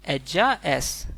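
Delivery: एज्जा एस said slowly and deliberately; slow clear recall for the class; slow model. Shown as a demonstration. Teacher slowly recalling Spanish she is for students. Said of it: "को हमने क्या पढ़ा था".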